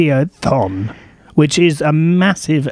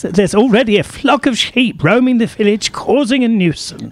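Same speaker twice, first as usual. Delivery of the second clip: put-on lightly done Welsh accent, higher; higher pitched playful Welsh accent; 6 semitones higher than usual. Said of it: "He would have said that in a Welsh accent".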